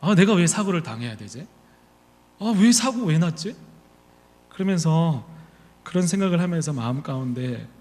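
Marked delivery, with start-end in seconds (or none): 0.0-3.6 rising indignation. Retold or imitated. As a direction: let the grievance climb. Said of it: "화가 나기 시작하는 거예요". (점점 억울함이 치솟으며)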